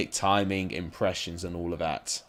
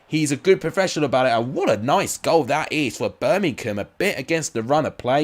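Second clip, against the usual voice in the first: excited; 4 semitones higher, 5 dB louder than usual. Real, not acted. Goal scored mid-commentary.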